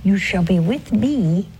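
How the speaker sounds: gentle, fading into a whisper; tender promise. Retold or imitated. Merciful Jesus to the thief, hushed tender promise. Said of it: "He says".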